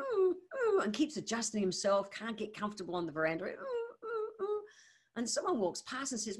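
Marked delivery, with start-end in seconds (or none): 0.0-0.8 high whimpering dog imitation, a pained "ooh". Dog on the veranda whimpering in pain, high whimper. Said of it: "the dog's whimpering, kind of going". 3.4-4.6 high, softer crying whimper of a dog, drawn out; a hurt dog's faint whine, lying on a nail. Retold or imitated. Dog shifting on the veranda, soft crying whimper. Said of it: "the dog's whimpering, kind of going".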